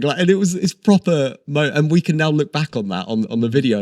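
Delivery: high, loud excitement winding down; lingering thrill; still excited. Real, not acted. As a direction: keep the buzz going. Still excited after the reveal.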